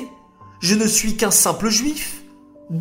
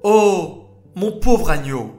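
tender pity. Acted. Moshe finds the thirsty lamb, tender and pitying. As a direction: comfort the little lamb. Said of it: "s'exclama Moshe".

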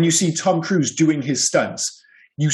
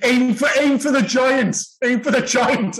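high, drawn-out pretend instruction; mock calling out; 9 semitones higher than usual. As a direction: call it up to someone at a window. Acts crew calling to jumping actress.

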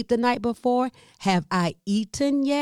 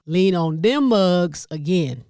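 Southern "them mugs"; 5 dB louder, slower than usual. Shown as a demonstration. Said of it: "when we say them mugs".

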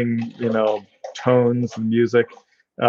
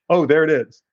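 mock surprise; 6 semitones higher, 3 dB louder than usual. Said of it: "It's just like, suddenly".

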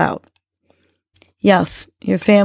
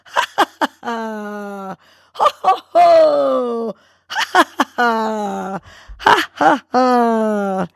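laughing ho ho, ha ha; 4 semitones higher, much slower than usual. Shown as a demonstration. Host keeps listeners going, laughing hard ho ho ho ha ha. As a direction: laugh until it bursts out of you. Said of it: "Keep going".

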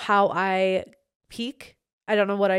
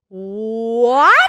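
loud, rising hammed-up shout; excited shout; 10 dB louder than usual. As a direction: belt it out like a big reveal. Announcing guest with fanfare.

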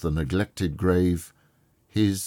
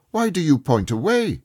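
higher, urgent exclamation; exclaiming; 11 semitones higher, 6 dB louder than usual. A narrator's reading. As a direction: blurt it out, alarmed and puzzled. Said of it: "Scrooge exclaimed".

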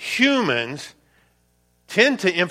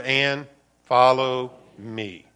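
slow together; 5 semitones lower, much slower than usual. Shown as a demonstration. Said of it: "can we say it together?".

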